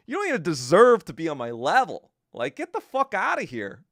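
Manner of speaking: loud, scornful tirade; furious retort. Retold or imitated. To the troll mocking his looks, a loud scornful tirade. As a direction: tear into her looks, contemptuous and loud. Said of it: "I was like".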